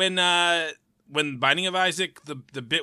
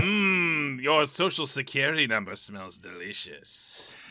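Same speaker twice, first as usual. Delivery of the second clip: slow theatrical villain menace; 2 semitones lower, 5 dB quieter, slower than usual. Acted. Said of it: "you sound like a villain".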